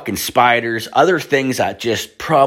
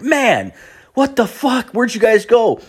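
retold surprise; 14 semitones higher than usual. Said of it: "I'm like".

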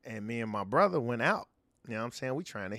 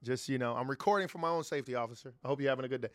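polite officer voice; faster than usual. Retold or imitated. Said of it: "I got a different type of voice".

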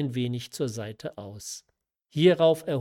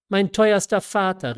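higher and louder, reaching out; crying out; 7 semitones higher, 8 dB louder than usual. A narrator's reading. Marquise cries out to her father, higher and louder. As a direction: call to him with open arms. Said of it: "rief die Marquise".

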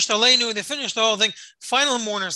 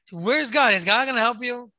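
higher pitched mocking taunt; jeering; 5 semitones higher than usual. People in cattle cars jeering at religious Jew, mocking. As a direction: throw it at him as a jeer. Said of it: "the people are jeering".

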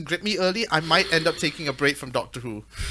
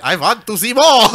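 Kristen impression; 3 semitones higher, 8 dB louder than usual. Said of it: "this is my Kristen accent".

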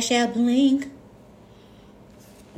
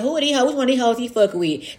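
high pitched outrage; 5 semitones higher than usual. Pretend. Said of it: "she gonna tell her homegirl".

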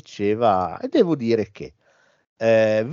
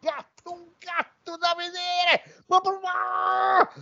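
excited cry; slower than usual. Retold or imitated. Mocking Siani's flirting.

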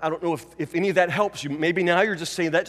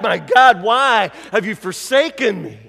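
anguished cry; 4 dB louder than usual. Retold or imitated. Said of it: "ripped out of the very presence".

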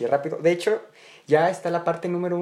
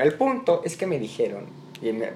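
ordinary talk

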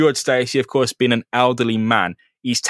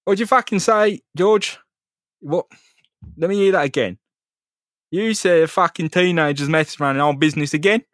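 high-pitched mock indignation; hammed-up boss ordering his lads about; raging crime boss; 6 semitones higher than usual. Crime boss on the phone to his henchman, mock raging. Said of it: "the Kingpin's raging".

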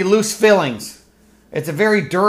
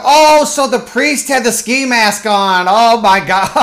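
fake amused reaction; 3 semitones higher, 4 dB louder than usual. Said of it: "And you can go".

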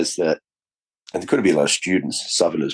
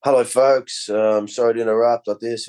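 a raised, higher call to the carriage; homeless man's address; 4 semitones higher than usual. Retold or imitated. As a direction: announce yourself to a whole carriage. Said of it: "stand at the end of the tube and go".

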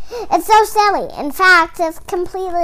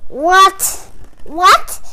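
startled; 4 semitones higher, 4 dB louder than usual. Acted. Reader baffled by the book.

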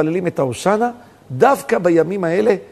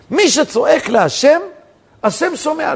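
slow, loud, higher "מי שצועק להשם"; emphatic proclamation; 8 semitones higher, 3 dB louder, slower than usual. Real, not acted. Preacher driving the principle home, loud slow proclamation. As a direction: proclaim it slowly with raised voice. Same principle repeated forcefully.

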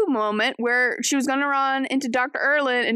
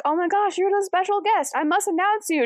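high, thrilled announcement; mock excited herald; 8 semitones higher than usual. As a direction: gush like an eager herald. Herald recognises the special guest.

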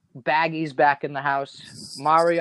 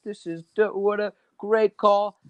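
laughing; 5 semitones higher than usual. Retold or imitated. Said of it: "I'm laughing".

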